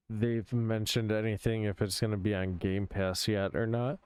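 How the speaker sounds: talking through a yawn; words stretched by a yawn. Real, not acted. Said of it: "Hmm, big yawn".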